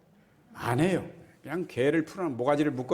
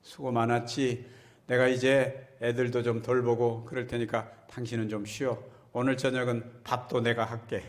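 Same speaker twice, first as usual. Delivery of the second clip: 다정한 남편 흉내. Retold or imitated. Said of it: "아내에게".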